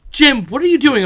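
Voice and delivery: shrieked high and loud as Pam; high mock Pam voice. Friend acting out the sitcom couple, high loud mock Pam. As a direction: squeal it like the sitcom wife catching Jim.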